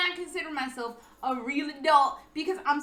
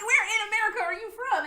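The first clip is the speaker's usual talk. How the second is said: laughing, rushed; 7 semitones higher, 4 dB louder, faster than usual. Retold or imitated. The speaker rephrasing, laughing.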